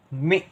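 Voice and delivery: मी said short, cut off quickly; short vowel. Shown as a demonstration. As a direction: keep the vowel in मी brief. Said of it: "कम देर के लिए".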